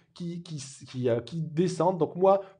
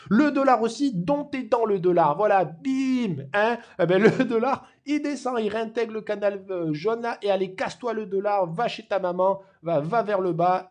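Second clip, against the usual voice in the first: gleeful cheering; 3 semitones higher, 5 dB louder than usual. Real, not acted. Cheering the falling dollar.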